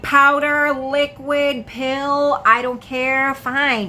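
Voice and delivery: high, emphatic list with exasperated indifference; retold impatience. Desperate sick woman to friend offering drugs, impatient.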